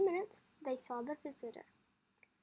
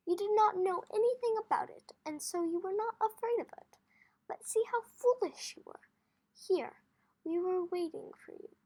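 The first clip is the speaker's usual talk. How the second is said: higher, louder fond father; fond teasing; 6 semitones higher, 9 dB louder than usual. Acted. Father reassuring Kino, higher and louder. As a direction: coax him gently, voice raised.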